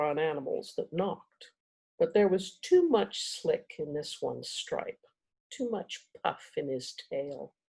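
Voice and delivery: measured storybook reading with dramatic pauses; story narration. A narrator's reading. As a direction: read the chapter aloud, savoring key words. Reads chapter aloud to audience.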